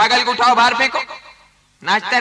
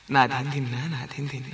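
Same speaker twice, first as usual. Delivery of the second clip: tabla bols; 9 semitones lower, 10 dB quieter than usual. Acted. Classical singer recites tabla bols.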